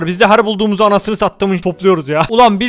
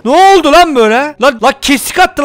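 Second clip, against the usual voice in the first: louder, higher, shocked "Ne oldu lan böyle?"; startled outburst; 4 semitones higher, 3 dB louder than usual. Real, not acted. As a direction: blurt it out in alarm. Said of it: "repeated louder after plain take".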